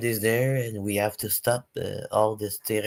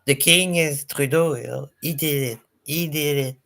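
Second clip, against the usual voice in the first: higher, louder imitation of gushing news; mock-excited proclamation, pitched up; mock acclaim; 6 semitones higher, 4 dB louder than usual. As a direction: parody the news hailing a hero. Mimicking news praising Trudeau.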